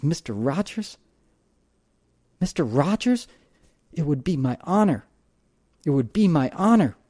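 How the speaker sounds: put-on light African accent, awed and delighted. Cab driver in awe of Mister Rogers, light African accent. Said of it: "He had this mellifluous, beautiful accent".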